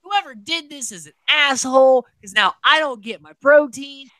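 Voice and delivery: high, loud indignant rant; mock Hardy's outrage at the vote; outraged Hardy. Host imitating angry houseguest Hardy, loud indignant whine. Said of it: "Hardy's like".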